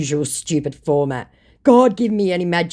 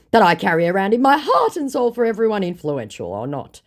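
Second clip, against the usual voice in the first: scammer voice; 7 semitones higher, 5 dB louder than usual. Retold or imitated. Voicing scammer's messages.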